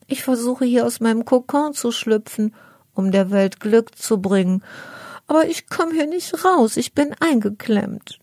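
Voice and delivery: a tiny trapped beetle asking for help; little ladybird girl. Acted. Ladybird stuck in her cocoon to the cat: high pleading girl voice. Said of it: "antwortet das kleine Käferchen".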